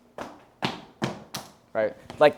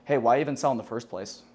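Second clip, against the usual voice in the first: downswing; 2 semitones lower than usual. Shown as a demonstration. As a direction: drop it down like a blunt statement. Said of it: "Can you imagine I said".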